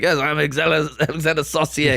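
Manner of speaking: lightly hammed French accent. Supposed hitman introducing himself, in a French accent. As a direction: play a suspicious fake Frenchman. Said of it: "It sounds like a hitman".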